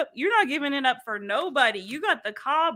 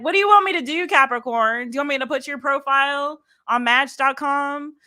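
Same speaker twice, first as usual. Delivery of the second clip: Tyler; 2 semitones higher than usual. Retold or imitated. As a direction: fire off the questions like an impatient matchmaker. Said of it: "I'm getting Tyler in this".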